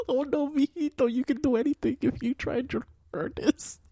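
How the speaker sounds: high, sing-song Latina mother accent, hammed up; mock Latina mom accent. Dad imitating his mom in a Latina accent, high and sing-song. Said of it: "Your mother has never said mijito".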